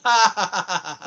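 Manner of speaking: loud burst, then spaced-out ha-ha; mock taunting laugh. Retelling that they can't leave the island, mock taunting laugh. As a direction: put on a gloating laugh.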